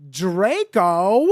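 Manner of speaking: normal talking voice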